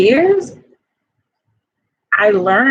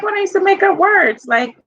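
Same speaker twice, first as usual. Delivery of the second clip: eager reminding; 6 semitones higher, faster than usual. Retold or imitated. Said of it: "I was like".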